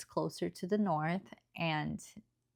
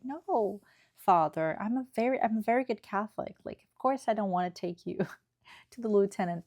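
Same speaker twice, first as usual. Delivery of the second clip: mock innocent; 3 semitones higher than usual. Sly guy pretends innocence.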